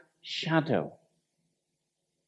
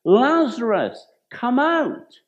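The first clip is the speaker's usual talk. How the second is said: a raised call, higher and louder; 4 semitones higher, 3 dB louder, slower than usual. Retold or imitated. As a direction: call him out of the tomb with authority. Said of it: "He cries out in a loud voice".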